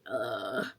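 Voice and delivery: low, fed-up ugh; weary groan. Retold or imitated. Acts out frustration while grieving.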